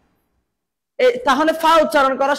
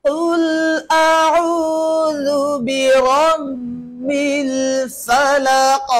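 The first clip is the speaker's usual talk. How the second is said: slow, drawn-out Quran recitation; much slower than usual. Shown as a demonstration. Teacher recites slowly for the child to copy. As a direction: chant each word slowly and clearly.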